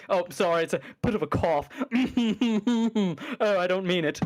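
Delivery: lightly mocked smug apology with a chuckle; Sargon, smugly apologetic. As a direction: imitate an apology that still sounds smug. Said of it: "that's kinda Sargon".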